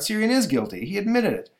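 high-pitched, startled bystander; bewildered crowd member. Acted. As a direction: cry out as if coming to your senses. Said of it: "says a member of the crowd".

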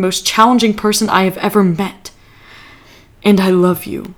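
lightly voiced earnest speech, barely changed; retelling Burke's speech. Quoting Burke's speech to a friend, lightly dramatic. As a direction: recite it like a proud declaration, half-mock. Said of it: "Burke goes".

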